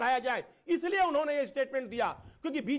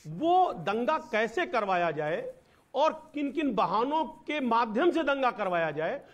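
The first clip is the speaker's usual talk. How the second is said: echo; 5 semitones lower than usual. Real, not acted. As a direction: voice echoing on the line. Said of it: "भाई थोड़ा इको आ रहा है".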